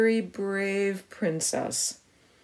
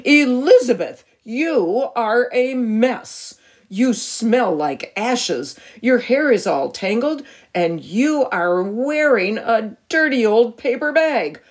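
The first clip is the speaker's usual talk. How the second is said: a lightly raised, scolding prince's voice; a touch of a spoiled prince scolding; mild snooty shout; 4 semitones higher, 4 dB louder than usual. Acted. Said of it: "He looked at her and shouted".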